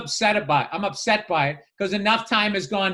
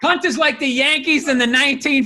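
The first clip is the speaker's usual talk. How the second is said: mock announcer; 6 semitones higher, 5 dB louder than usual. Joking to co-host like a sports announcer, hammed-up promo. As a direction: boom it like a big-game promo.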